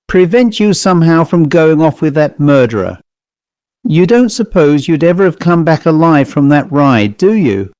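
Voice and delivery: mildly agitated Cockney servant; composed Cockney servant. Acted. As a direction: warn the master with feeling held in. Voices the servant Gosling.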